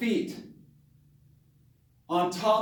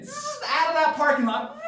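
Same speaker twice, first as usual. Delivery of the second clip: engine zoom; 7 semitones higher than usual. Retold or imitated. Speeding away from Bigfoot.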